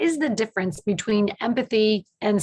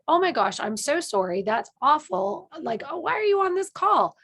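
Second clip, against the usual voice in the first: mock alarm; 6 semitones higher than usual. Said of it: "I immediately went to".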